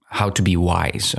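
ordinary talk

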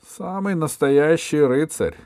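высокое, громкое, растянутое утверждение; настаивай на своём, споря; спор. A narrator's reading. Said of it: "спорила королева-мачеха". (громко и протяжно споря)

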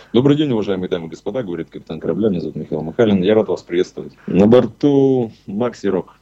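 quick airline captain greeting; captain announcement. Shown as a demonstration. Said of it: "капитанского приветствия".

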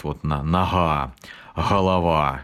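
southern Russian fricative g; southern g demo. Shown as a demonstration. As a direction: say нога and голова with a breathy southern h-like g. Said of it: "вот этот гэкающий диалект".

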